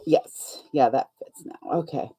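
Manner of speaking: hiccuping between words; with hiccups. Real, not acted. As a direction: talk through hiccups. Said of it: "I've got hiccups today".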